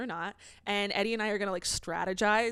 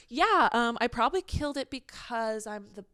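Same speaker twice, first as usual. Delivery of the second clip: mocking Lindsay; 3 semitones higher, slower than usual.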